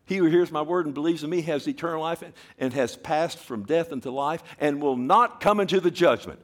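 fast, even reading of the verse; preacher reading scripture. Real, not acted. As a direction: read the verse straight through. Reads scripture aloud.

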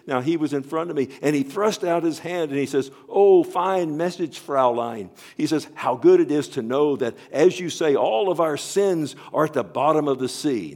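rising intensity as the guard appears; mounting retelling. Retold or imitated. Preacher retelling the guard's greeting, building loud. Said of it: "she says".

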